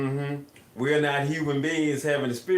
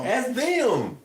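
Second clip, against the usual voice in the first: mock eerie; 10 semitones higher than usual. Repeating eerie answer.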